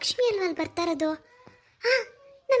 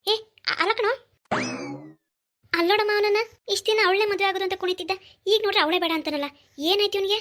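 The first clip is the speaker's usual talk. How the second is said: high-pitched, exasperated complaint; indignant disbelief; 6 semitones higher, faster than usual. Acted. Mother complaining that her son now refuses the marriage, indignant. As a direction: protest in a raised, incredulous voice.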